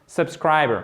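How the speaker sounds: subscriber falling to a bare schwa; silent final R. Shown as a demonstration. Teacher repeats the word for learners, silent final R. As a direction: finish subscriber on buh, with no R. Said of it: "on n'entend même pas le R à la fin".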